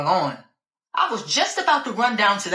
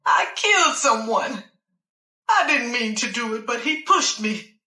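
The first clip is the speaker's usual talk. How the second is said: tearful confession; 4 semitones higher than usual. Acted.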